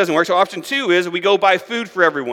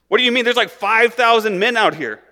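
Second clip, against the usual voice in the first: disbelieving disciples; 5 semitones higher than usual. Retold or imitated. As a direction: react like it's impossible. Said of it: "the disciples, I'm sure, were like".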